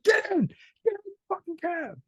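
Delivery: very high-pitched mock order; imitated bossy cabbie. Cabbie ordering travellers into the cab, high mock command. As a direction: order them in, voice pushed way up.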